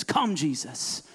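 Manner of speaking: high, slow, aching plea to Jesus; desperate love-sick bride. Acted. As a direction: plead like a bride longing for her groom. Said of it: "The Spirit and the desperate, love-sick bride of Christ says".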